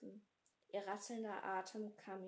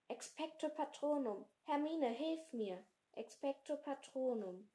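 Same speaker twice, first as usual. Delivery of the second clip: desperate cry; 5 semitones higher, 4 dB louder than usual. Acted. Desperate spellcasting.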